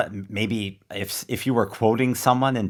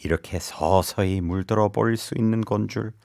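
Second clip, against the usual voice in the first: soft, lowered romantic reading; 3 dB quieter, much faster than usual. Shown as a demonstration. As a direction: read it like a tender love confession. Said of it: "Do it in your most romantic voice".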